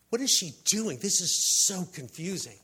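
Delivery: emphatic mock bewilderment; confused onlookers. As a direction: play a crowd openly baffled by her. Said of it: "everybody was like".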